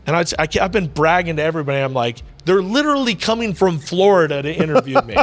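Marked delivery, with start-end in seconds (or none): 2.5-5.2 high, loud, laughing disbelief; laughing brag. Real, not acted. Joking with the host who flew from Florida, laughing. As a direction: tease the host through laughter.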